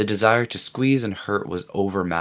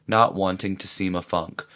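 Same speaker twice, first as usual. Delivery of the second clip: plain reading voice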